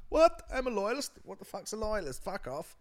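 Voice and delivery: high put-on outraged voice; hammed-up indignant argument; indignant back-and-forth. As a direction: start with a loud high yelp, then protest. Acted exchange between loyalist and Englishman.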